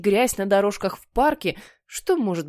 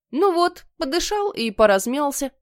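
chirpy, pitched up, self-satisfied; smug announcement; 6 semitones higher than usual. Acted. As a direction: announce it like a job done. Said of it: "объявил Генри".

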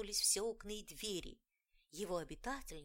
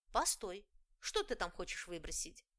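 pixie; 4 dB louder than usual. Acted. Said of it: "звонкий голосок маленькой феечки".

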